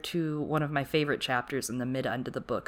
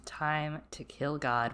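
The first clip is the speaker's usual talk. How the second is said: slow, quiet, dramatic; ominous echo; 6 dB quieter, much slower than usual. Acted. Podcast host echoing her co-host's ominous line, slow and hushed. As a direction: let each word drop slowly, like a doom line.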